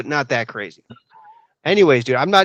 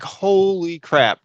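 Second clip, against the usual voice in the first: drawn-out astonishment; 4 semitones higher, much slower than usual. Retold or imitated. Retelling shock at the man flipping.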